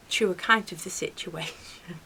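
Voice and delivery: an unvoiced, pointed whisper; calm whisper. Answering the neighbour's demand for her account, quiet whisper. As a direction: let the words slip out under your breath. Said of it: "And I was so calm".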